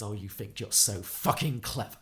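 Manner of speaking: slow, acted sneering comeback; mock contempt, drawn out; scornful retort. Harry throwing Perry a dirty look, scornful. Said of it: "a dirty look and says".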